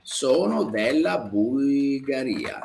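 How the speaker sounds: sono della Bulgaria said slowly, stress on sono; slow model sentence. Shown as a demonstration. Teacher repeating a student's answer slowly for the class. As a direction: lay it out slowly for learners. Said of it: "come lei dice".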